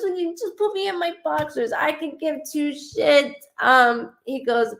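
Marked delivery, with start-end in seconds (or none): 0.0-3.3 channelling the spirit. Retold or imitated. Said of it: "I'm so sorry I'm talking like this".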